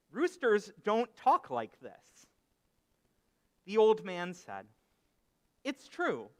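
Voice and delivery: animated storytelling with deliberate pauses; story narration. Acted. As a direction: tell it as a parable, phrase by phrase. Tells a parable within a sermon.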